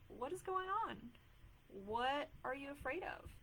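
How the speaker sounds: put-on high, gently curious asking, as if to a frightened child; curious questioning. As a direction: coax the fear to speak. Questioning her own fear.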